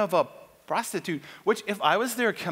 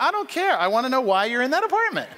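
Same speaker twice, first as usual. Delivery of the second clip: impatient officer; 5 semitones higher, faster than usual. Retold or imitated. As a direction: shut him down and demand answers. Officer insisting.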